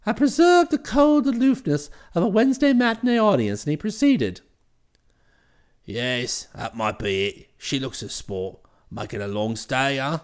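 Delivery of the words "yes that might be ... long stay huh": much lower, hearty brash chap; cheery voice. Acted. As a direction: hail him with cheery familiarity. Bingley voiced again.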